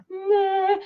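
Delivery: high, drawn-out unimpressed meh; a bored little meh; mock meh. Shown as a demonstration. Reading out a poll option, a high dismissive meh. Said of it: "M E H, like".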